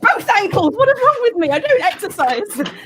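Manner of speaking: exclaiming. Real, not acted. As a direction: yelp it out in disbelief. Twisted ankle while jogging.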